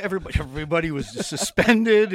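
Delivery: laughing through the word suspended. Real, not acted. Guest laughing recalling the suspended team. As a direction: let the laugh break into the line. Laughing while telling the story.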